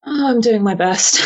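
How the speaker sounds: acted weary reassurance, close to a laugh; mildly tired. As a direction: let a touch of your own tiredness show. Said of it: "I say it with some level of my own tiredness".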